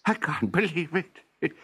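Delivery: amazed professor. Acted. Landing in garden, amazed.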